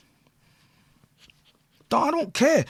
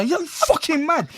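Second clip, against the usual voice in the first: slow mock telling-off; 8 semitones higher, slower than usual. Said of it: "So I fully stuck it on her".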